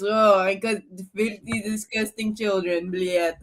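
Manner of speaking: put-on Russian accent. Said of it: "develops, like, a thick Russian accent".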